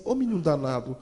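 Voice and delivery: mild imitation of the crying mother's plea; tearful plea. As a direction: beg him through tears. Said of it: "Ela começou a chorar e falou assim".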